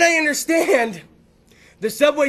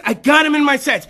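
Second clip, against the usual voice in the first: imagined hunter; 4 dB louder than usual. Acted. Hunter tells his party he has aim, raised eager voice. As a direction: call it out in an open, raised voice. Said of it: "And he's like".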